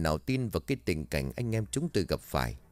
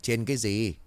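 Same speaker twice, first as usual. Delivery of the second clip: snapping; 2 semitones higher than usual. Acted. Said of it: "khẽ cau mày rồi gắt".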